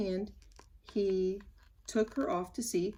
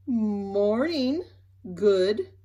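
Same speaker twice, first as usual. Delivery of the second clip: bright, louder back-to-front greeting; cheerful greeting; 6 dB louder, much slower than usual. Acted. Mister Topsy-Turvy greeting them, cheerful and loud. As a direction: call it out cheerfully. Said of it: "he said cheerfully".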